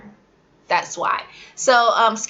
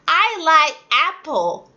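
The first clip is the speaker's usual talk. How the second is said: higher, slow learner's mistake; student's missing plural; imitating a student; 6 semitones higher than usual. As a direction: play the kid dropping the s.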